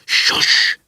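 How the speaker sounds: sharp, unvoiced shush; angry hiss. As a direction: hiss the reader into silence. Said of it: "vehemently hissed at him".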